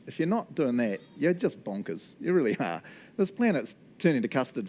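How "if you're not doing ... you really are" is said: a hint of playful bluntness; mock rude voice. Pastor scolding the congregation in a jokingly rude voice, lightly done. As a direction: tease them with mock rudeness. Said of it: "So with my rude voice".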